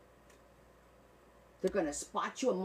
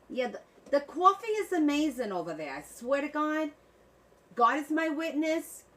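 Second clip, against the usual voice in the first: higher, louder, swearing by the coffee; gushing; 6 semitones higher, 5 dB louder than usual. Real, not acted. Streamer raving to chat about foreign coffee, excited. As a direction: rave about it like you mean it.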